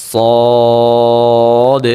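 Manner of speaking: সদ chanted long and thick; heavy full-mouth Sad. Shown as a demonstration. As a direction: fill the mouth and hold সদ. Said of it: "মোটা করে মুখ ভরে". (মুখ ভরে মোটা সদ)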